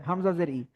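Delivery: ই started in the throat, no y-glide; throat-made i. Shown as a demonstration. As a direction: begin ই as a bare vowel from the throat. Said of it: "আপনি যদি গলা থেকে দেন".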